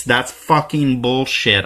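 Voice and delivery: real anger, slow and hard; slowly, angrily; irate. Real, not acted. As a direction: spit it out, fed up. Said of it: "I'm sorry I'm getting irate now".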